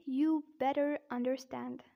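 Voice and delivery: American demo, Rs sounded in better and understand; careful American-accent example sentence. Shown as a demonstration. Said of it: "but in American accent".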